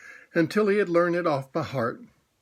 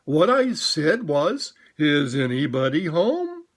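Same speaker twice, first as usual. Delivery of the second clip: louder call; 4 dB louder than usual. Acted. Pooh calling loudly into Rabbit's hole. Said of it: "Pooh more loudly, very loudly".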